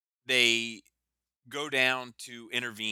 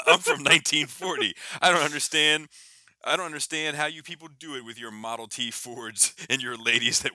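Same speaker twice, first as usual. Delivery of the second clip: lampoon a stuffy 1940s soldier; a teen mimicking Captain America as a square, cracking up; mocking Captain America; 2 semitones higher, 6 dB louder than usual. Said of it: "Iceman and Kitty Pryde are imitating".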